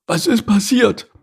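high, put-on animal voice; opossum asking.

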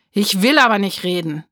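put-on loud, stubborn child's no; defiant refusal. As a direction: push back, loud and sulky. Trotzige Weigerung des Kindes. (trotzig und laut)

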